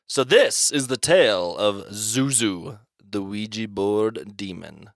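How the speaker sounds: slow, spooky story opener; slow storyteller. Acted. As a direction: draw out the tale slowly. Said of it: "maybe I'll have some fun voices".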